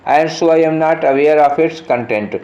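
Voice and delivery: reading the sentence very slowly, word by word; slow dictation read. Shown as a demonstration. Teacher reading the question sentence to students, very slow and deliberate. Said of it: "reads the exam sentence aloud".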